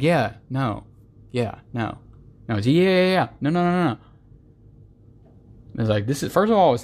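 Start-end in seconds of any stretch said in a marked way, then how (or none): 2.7-4.0 fast. Shown as a demonstration. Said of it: "they always say it so fast".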